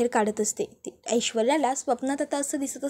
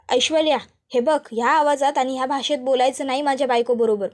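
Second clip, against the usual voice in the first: angry rebuke. Acted. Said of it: "ऋषिकेशचा राग अनावर होतो".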